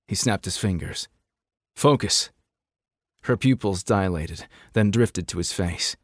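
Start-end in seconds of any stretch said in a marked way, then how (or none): 1.8-2.3 firm, raised "Focus"; sharp command. A narrator's reading. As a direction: snap her to attention. Kai snaps fingers at girl.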